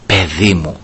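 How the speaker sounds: low, soft fatherly address; quietly voiced tender father; sweet fatherly voice. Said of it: "Τι γλυκιά φωνή ήταν αυτή".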